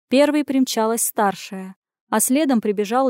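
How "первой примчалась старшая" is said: ordinary delivery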